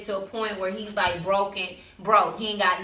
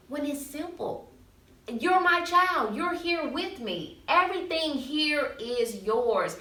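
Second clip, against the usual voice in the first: slow, gentle reassurance; tender father; 5 semitones higher than usual. Retold or imitated. Father comforting his jealous older son, slow and tender. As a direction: slowly reassure the child.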